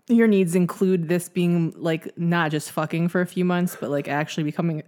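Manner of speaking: talking while choking on food; half-choked words, fighting a cough; choking on raspberries. Real, not acted. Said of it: "I'm, like, choking on fucking raspberries right now".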